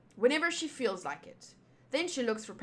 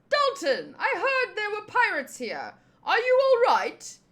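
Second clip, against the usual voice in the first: high, urgent, raised voice; worried villager; 10 semitones higher, 6 dB louder than usual. Acted. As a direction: rush in anxious to check on a friend. Villager worried about pirates, story.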